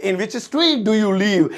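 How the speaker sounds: slow, clear English; teacher modelling the sentence; each word spaced out; slow model sentence. Shown as a demonstration. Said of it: "तुम कौन सी गली में रहते हो".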